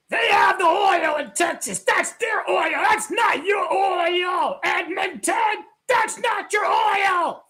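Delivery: loud mocking taunt. Real, not acted. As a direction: rub it in, shouting. Taunting Edmonton about oil.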